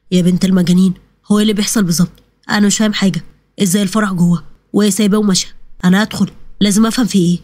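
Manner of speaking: a man left confused, talking to himself; lightly voiced puzzled man.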